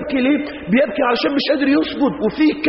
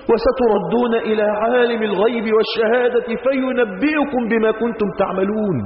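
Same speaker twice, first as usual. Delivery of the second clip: Quran recitation; slower than usual. Acted. Quran verse recited slowly.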